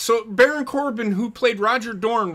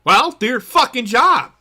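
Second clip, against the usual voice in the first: real frustration, hammer the word job; furious shout at lazy players; loud rant; 7 dB louder than usual. Real, not acted. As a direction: punch it out, fed up and loud. Ranting about players being yelled at.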